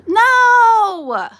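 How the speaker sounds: high, loud yelp of no; sharp no. Real, not acted. Owner yelps no as the dog grabs her.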